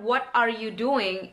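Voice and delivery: 'What are you doing' slow, word by word; slow unreduced 'What are you doing'; full form. Shown as a demonstration. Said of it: "kita mengucapkan".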